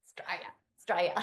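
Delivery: quick, swallowed Aussie Australia; imitated Aussie accent. Host copying the guest's word, Australian accent. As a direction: mimic a broad Australian accent, fast. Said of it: "the way you say that word in your accent".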